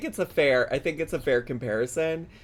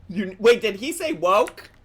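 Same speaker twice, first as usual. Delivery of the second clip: raised pitch, checking what was heard; a startled question, a little louder; surprised double-take; 4 semitones higher, 4 dB louder than usual. Real, not acted. Reacting to the clip's word, surprised.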